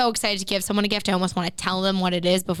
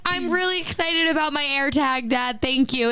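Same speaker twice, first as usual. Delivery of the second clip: high, retold gushing thanks; eager reassurance; 4 semitones higher than usual. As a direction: gush to cheer up a let-down dad. Placating disappointed dad with eager thanks.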